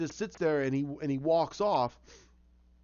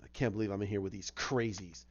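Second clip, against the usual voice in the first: Penguin voice; 7 semitones lower, 5 dB quieter than usual. Retold or imitated. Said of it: "and he's like".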